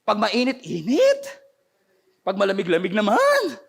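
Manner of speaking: imitating a complainer, last word pushed up; mock complaining. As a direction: whine it like someone never satisfied. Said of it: "Lahat na lang may reklamo".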